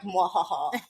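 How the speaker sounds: mock villain "mwahaha"; villain laugh. Co-host voicing her dramatic moment, mock villain laugh. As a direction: toss out a hammy evil laugh. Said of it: "dramatic moment of".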